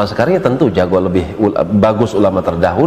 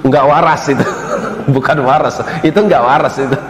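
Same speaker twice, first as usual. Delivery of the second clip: laughing; 3 semitones higher than usual. Real, not acted.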